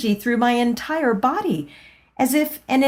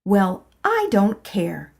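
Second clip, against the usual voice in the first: defiant retort. Acted. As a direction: snap back stubbornly. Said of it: "I silently shot back".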